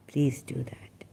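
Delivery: soft whispered reassurance. Real, not acted. Comforting worried viewers, in a whisper. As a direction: hush it to comfort them.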